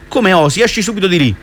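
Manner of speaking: "Come osi?" snapped up high, then order her out; angry exclamation. Acted. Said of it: "esclamò". ("Come osi?" ripetuto più alto e forte, furiosa)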